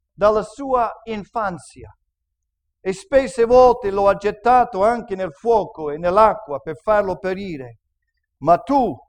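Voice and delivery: measured Bible reading to the congregation; scripture reading. Acted. Pastor reads the Gospel to the church, measured and clear. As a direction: read the passage aloud, steady and clear.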